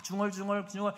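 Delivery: high, run-on mock mumbling; imitated babbling prayer. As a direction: imitate someone rattling off meaningless prayer words. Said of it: "나도 알지 못하는 얘기로 시간 보내는".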